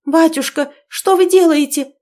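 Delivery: high, loud frightened shriek; panicked scream; hysterical cry. A narrator's reading. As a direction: cry out in horror at her father. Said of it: "истерически вскрикнула".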